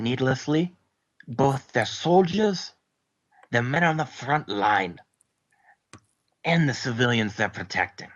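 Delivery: Scottish soldier's reproach; stern Scottish brogue; Scottish accent. Acted. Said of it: "Scottish character speech".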